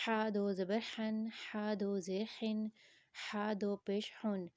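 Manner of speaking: ہا and ہن with a tight H from mid-throat. Shown as a demonstration. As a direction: constrict the middle throat on every ہن. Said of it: "گلے کے درمیانی حصے سے ساؤنڈ آئے گا".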